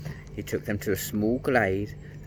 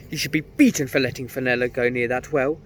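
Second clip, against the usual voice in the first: loud, high, bitter scolding; bitter mother; 6 semitones higher, 7 dB louder than usual. A narrator's reading. Mother banishing the children over Fenella, bitter and loud. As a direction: cast them out in grief. Lady Rosabelle voiced in the story.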